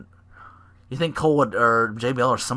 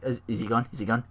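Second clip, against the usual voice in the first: softer, timid mock hush; scared whisper-ish question; 3 semitones lower, 6 dB quieter, faster than usual. Wrestler checking the coast is clear, softly. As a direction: peek out, nervous and hushed. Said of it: "he's like".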